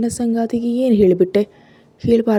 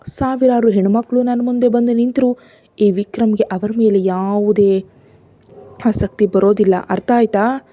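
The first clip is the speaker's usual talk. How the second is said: a husband's hurt, raised but controlled anger; somewhat loud anger. Acted. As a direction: push back at her, a little louder. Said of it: "ಸ್ವಲ್ಪ ಜೋರಾಗಿ ವಿಕ್ರಮ್ ಹೇಳಿದಾಗ". (ಸ್ವಲ್ಪ ಜೋರಾದ ಸಿಟ್ಟಿನ ಧ್ವನಿ)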